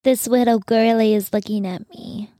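cutesy voice for the dog. Real, not acted. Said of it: "That's my dog voice".

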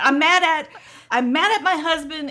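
laughing through the words. Retold or imitated. Woman laughing to the officer about her husband. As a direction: chuckle as you blame him. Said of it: "and I'm like".

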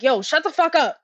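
high, half-laughing mock yell of shut up; mock outburst laughing. Podcaster pretending to yell at the defendant, high and half-laughing. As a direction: pretend to lose it, cracking up as you yell.

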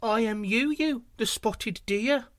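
a deer forcing confidence; confident deer. A narrator's reading. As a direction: muster courage and announce yourself. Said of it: "replied confidently".

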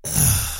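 scornful sigh of disgust; imitated huff of disdain; disdainful ugh. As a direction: breathe out a disgusted, withering ugh. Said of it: "looked at me like".

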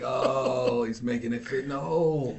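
high, loud aha moment; sudden delighted realization; excited realization. Retold or imitated. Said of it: "I was like".

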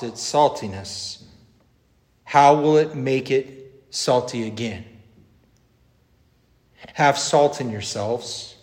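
solemn, emphatic gospel reading; formal public Bible reading, lifted at each new warning; scripture reading. Acted. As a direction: read the Gospel aloud with measured pauses. Reads the gospel aloud.

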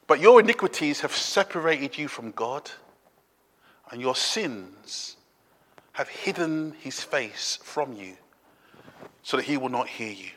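low, soft, grave verse; hushed, weighty Bible quote; solemn scripture reading. Acted. Reads a grave Bible verse aloud.

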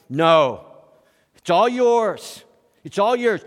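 loud, slow and insistent; emphatic. Acted. Preacher insisting to his congregation, loud and slow. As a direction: press it home to the congregation. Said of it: "preacher emphasizes gift".

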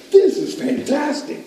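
high, slow mock amazement; awestruck kid. Boy discovers tackle boxes in the closet, awestruck. Boy marvels at hidden gifts.

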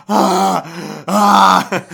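imitated baby wail in short bursts; mock cries of "ah"; mock baby scream. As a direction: act out a baby's startled cries.

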